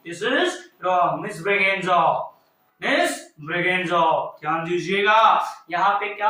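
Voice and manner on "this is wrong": this is wrong drawn out low and slow; slow, lower correction. Shown as a demonstration. Teacher slowly, lowly marking a student's wrong plural. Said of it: "गलती से भी आपने S जोड़ा".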